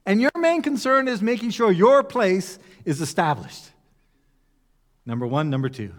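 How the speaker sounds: high, incredulous rebuke; a touch of disbelief at their priorities; exasperated Jesus. Retold or imitated. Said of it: "what he's saying is".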